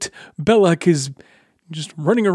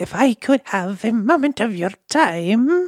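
put-on quiet, soft, hushed elderly woman's voice; 4 semitones higher than usual. Voicing an old goblin shaman woman asking a player for a moment, quiet elderly lady voice. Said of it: "in her elderly lady-like voice... Quietly".

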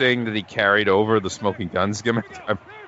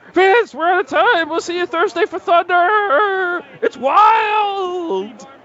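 frantic announcer voice, very high, drawn out, wild; 6 dB louder than usual. Imitating the announcer signing off the show: frantic Tony announcer voice. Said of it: "the frantic version, you know, that Tony would do".

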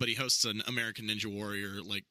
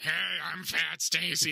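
high, slow, creaky, gritty character voice, drawn out; 8 semitones higher than usual. Reading through scripts and doing a character's voice: Fat Stacy voice. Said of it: "I was doing the voice, and I did this kinda like".

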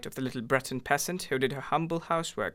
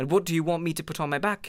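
exasperated, short-tempered, impatient, irritated voice; 3 semitones higher, 3 dB louder than usual. A wife answers her husband about an invitation, impatient.

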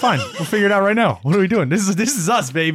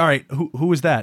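usual speaking voice

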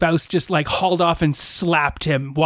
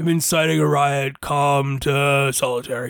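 glum, unhappy, disgruntled tone. Voicing a guard taking a prisoner to solitary: unhappy overweight guard. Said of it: "chubby and overweight and unhappy and says".

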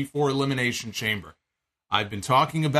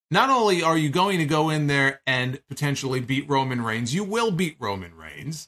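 usual speaking voice

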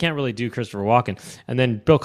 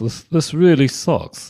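put-on English cartoon character voice. Asked to do Butthead in English, the speaker says: Butthead in English accent. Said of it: "Do Butthead. / Is English? / Yeah".

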